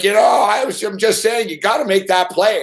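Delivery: half-shouted mock outrage at the kid's error; retold angry rant. Radio host scolding a kid on air, retold with mock anger. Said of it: "I got mad on the air once".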